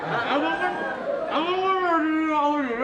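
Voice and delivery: loose dentures, slurred words; gigi palsu lepas. Pretend. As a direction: talk with dentures slipping. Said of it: "Gigi palsunya lepas, ya?". (bicara dengan gigi palsu lepas)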